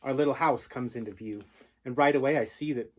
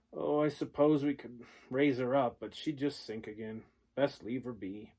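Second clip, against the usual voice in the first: defeated father. Acted.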